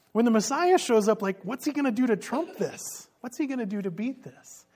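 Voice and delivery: excited. Real, not acted. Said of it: "I love this".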